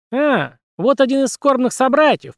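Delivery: high squeaky puppet voice; Mickey Mouse squeak. Acted. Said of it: "пропищал странный, высокий, как у Микки Мауса".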